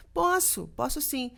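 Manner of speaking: high, loud eager yes. Retold or imitated. Dubbing studio calls last minute, she answers an eager high yes. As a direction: jump at the offer, bright and loud.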